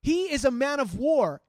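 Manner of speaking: loud, shocked disbelief; incredulous king. Retold or imitated. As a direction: stop him cold, stunned he'd even try. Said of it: "He's like".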